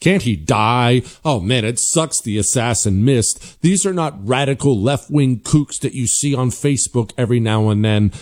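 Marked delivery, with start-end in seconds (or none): 0.0-3.6 mock Democrat. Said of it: "what they openly wish for".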